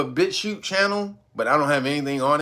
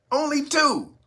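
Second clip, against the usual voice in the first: normal talking voice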